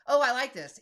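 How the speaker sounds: pleased surprise. Real, not acted. Delighted by the AI draft.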